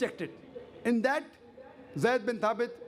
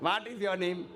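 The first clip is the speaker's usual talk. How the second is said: lower, mock South Indian English; South Indian accent; 4 semitones lower than usual. Shown as a demonstration. Englishman mocking that type of English, in South Indian accent. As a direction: mimic the South Indian accent, a little low. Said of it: "What type of English is this".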